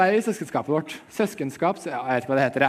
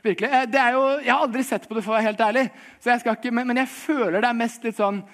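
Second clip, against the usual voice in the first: ordinary talk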